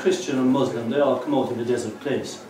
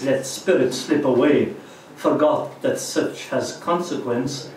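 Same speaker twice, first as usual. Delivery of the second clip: measured, solemn poetry reading; poem recitation. Acted. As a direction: read your poem out to a listening room. Recites own poem to audience.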